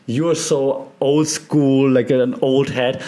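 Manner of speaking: a listener protesting, hammed up a little; mock objection. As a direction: play the sceptical listener who thinks you're old-fashioned. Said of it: "And now you might say".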